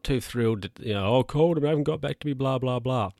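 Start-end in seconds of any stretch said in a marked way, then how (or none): 1.2-3.1 fast, high whiny imitation; mock complaint. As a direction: rattle it off like a moaning relative. Relative's complaint mimicked.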